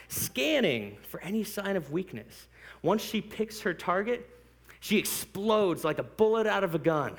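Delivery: vivid nature-chase storytelling, gathering energy; dramatic story narration. Acted. Preacher painting a cheetah hunt for the congregation, dramatic. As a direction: narrate the hunt with mounting intensity.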